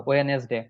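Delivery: "ওয়েডনেসডে" as we-nes-de, three syllables; wrong pronunciation. Shown as a demonstration. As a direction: misread "ওয়েডনেসডে" with a sounded nes. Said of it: "একটা ভুল, একটাও right না".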